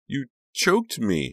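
slow, high, strained rasp; hoarse, strained. Acted. Becca gasps at Honey after being choked, hoarse and strained. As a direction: force it out of a sore throat. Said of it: "in a hoarse, strained voice".

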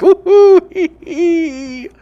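high whoop then tittering hee hee; giggly whoop. Real, not acted. Host giggling over the dog bit, high whoop.

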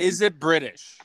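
awful mock British accent. Guesser asks the host about the car, awful British accent. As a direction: put on a bad British accent. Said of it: "that was an awful British accent there".

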